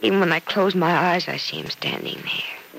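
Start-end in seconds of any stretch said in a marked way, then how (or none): 1.3-2.8 breathy, slow whisper; hushed whisper. Acted. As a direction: barely voice it, slowly. Grieving, recalling dead husband.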